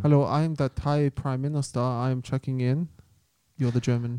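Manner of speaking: lightly put-on English accent; posh-ish English hotel guest. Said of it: "I went English".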